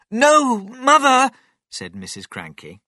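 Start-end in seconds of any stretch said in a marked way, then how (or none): 0.1-1.3 very high, loud cry; alarmed protest. A narrator's reading. Missus Cranky stopping her mother drinking, alarmed shout.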